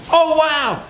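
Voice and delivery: high, delighted gasp of surprise; surprised wow. Pretend. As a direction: react as if stunned by good news. Pretend call, surprise reveal.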